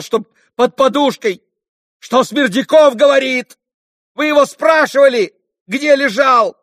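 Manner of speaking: high, loud, rambling outcry that keeps building; frantic bitter accusation. A narrator's reading. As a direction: get hotter and angrier as you repeat. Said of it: "восклицал всё более и более".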